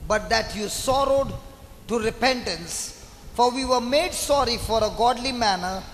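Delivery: measured reading with pauses between phrases; scripture reading. Acted. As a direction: read the verse out deliberately, phrase by phrase. Reads the verse aloud. (நிறுத்தி நிறுத்தி வேதம் வாசிப்பது)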